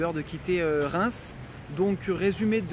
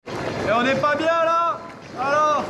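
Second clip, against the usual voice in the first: higher, slow, put-on film voice; movie quote voice; 8 semitones higher, 3 dB louder, slower than usual.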